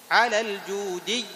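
الجودي slow and loud, ending on a doubled ya; correct shadda. Shown as a demonstration. Teacher models الجودي for the class. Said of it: "هذه مشدد، ما تمد".

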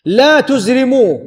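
"لا تزرموا" with u on the ت and a vowelless ز; careful teacher's reading of "لا تزرموا", tuzrimu; vowelled as specified. Shown as a demonstration. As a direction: say "لا تزرموا" as tuz-ri-mu, no vowel after the z. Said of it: "بضم التاء وإسكان الزاي".

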